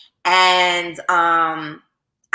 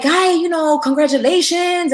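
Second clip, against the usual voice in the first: imitating her mom; 10 semitones higher, 3 dB louder than usual. Mom voiced in story.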